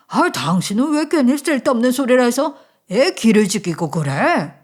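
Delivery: husband berating his wife; acted scolding. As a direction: turn on your wife and tell her off. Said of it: "남편이 소리 지르는 걸". (아내를 나무라는 남편)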